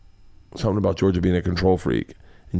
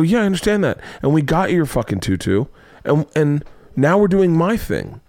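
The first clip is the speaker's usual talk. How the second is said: mock-exasperated retort, pitched up; exasperated dad; 6 semitones higher than usual. Dad arguing with daughter about the trip, exasperated. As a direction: retell a dad digging in his heels.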